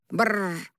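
mock buzzer sound for a wrong answer; guttural buzzer noise. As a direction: rattle it like a game-show buzzer. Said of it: "ужасный гортанный звук".

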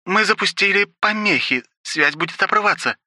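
high maid's voice, called out; the maid calling to her master over the radio; rough exclamation. Acted. Ruby on radio.

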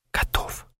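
hushed unvoiced whisper. A narrator's reading. Doctor whispers over the body, hushed. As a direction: breathe the word in horror. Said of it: "шепнул".

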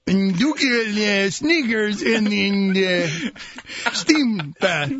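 halting, botched attempt at a German or Italian accent; botched foreign accent. Host imitates a foreign radio host, botched accent. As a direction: fumble through a vague European accent. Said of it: "I don't know what that accent was".

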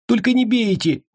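high scared squeal; terrified high-pitched begging; frightened plea. A narrator's reading. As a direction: beg in a high panicky squeak. Frightened captive begs.

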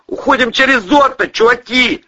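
high, urgent yell; loud, high escape order; shouted call. A narrator's reading. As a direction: call the gang to bail out. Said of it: "крикнул Планшетов".

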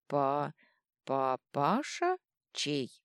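put-on slurred, stumbling drunk voice; drawn-out drunken stammer; giggly drunk. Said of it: "пьяно хихикнул Дрюня".

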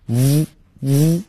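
"呜" sounded as a buzzing English v; isolated voiced v for "呜"; lip-teeth onset. Shown as a demonstration. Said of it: "上牙咬着下唇".

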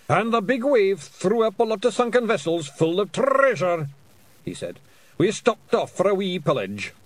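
proud little warrior reporting; Feegle voice. A narrator's reading. William speaking.

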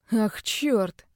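a touch of dismay on the curse; mildly rueful outburst; rueful exclamation. Acted. Caged man realizes his mistake, mildly rueful exclamation. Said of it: "сокрушённо воскликнул".

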